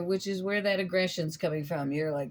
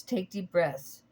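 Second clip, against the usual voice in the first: slow calming repeat; 2 semitones lower, slower than usual. Retold or imitated. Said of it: "So I'm hearing".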